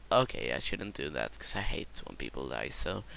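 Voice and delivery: low unvoiced whisper. Real, not acted. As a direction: breathe it out in a whisper. Whispered aside.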